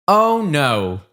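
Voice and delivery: a teacher's let-down "oh no"; disappointing tone. Shown as a demonstration. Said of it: "That's my disappointing tone".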